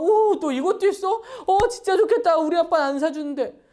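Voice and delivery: put-on envious child. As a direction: gush like a jealous classmate. Envious friend admiring a gadget. (친구 물건을 부러워하는 아이처럼 들뜬 목소리)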